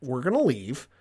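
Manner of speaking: lightly voiced cold commander; imitating Thrawn. Retelling Thrawn's warning.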